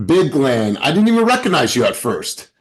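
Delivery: high, loud and amazed; excited. Real, not acted. Host hypes Glenn's weight loss, loud and amazed. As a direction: gush over Glenn's new look.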